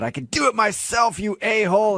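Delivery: hams up her yelling at the date, half sung; mock yell. Host retelling the caller's outburst to listeners, in a high sing-song mock yell. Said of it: "she yelled at him and said".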